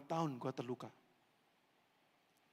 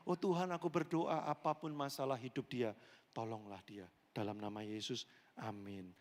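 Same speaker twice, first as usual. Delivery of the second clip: hushed, lower prayer that fades; 3 semitones lower than usual. Pretend. Voiced prayer for stranger. (doa pelan dan tulus)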